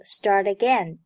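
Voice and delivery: "start again" run together as one word; linked pronunciation. Shown as a demonstration. Teacher demonstrates 连读, "start again" linked. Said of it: "Start和again连读".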